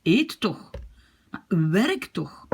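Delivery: mildly irritated commands; losing patience, pushing each order; teacher showing a touch of irritation; impatient. Shown as a demonstration. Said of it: "je commence à perdre ma patience".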